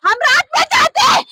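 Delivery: high-pitched shouted complaint; distraught protest. Real, not acted. Relative protests police ignoring complaint. (गुस्से और दुख में ऊँची गुहार)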